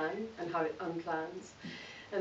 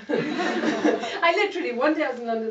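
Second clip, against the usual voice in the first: laughing; 7 semitones higher, 9 dB louder than usual. Real, not acted. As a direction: tell it as if you still can't believe it. Laughing at her sudden move.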